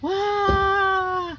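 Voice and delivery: high, loud drawn-out wow; exaggerated wonder; amazed exclamation. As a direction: gasp it out big for a child. Showing a child ants eating.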